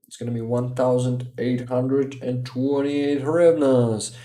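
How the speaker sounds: booming arena announcer call; fighting game announcer. Pretend. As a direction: announce the amount like a fight intro. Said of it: "was this imitation of the fighter announcer voice".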